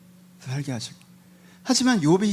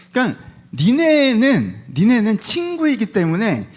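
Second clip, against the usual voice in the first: slow, drawn-out reproach; reproachful; 3 semitones higher, slower than usual. Acted. Job tells friends their role, slow and reproachful. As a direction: stretch the words to press the point.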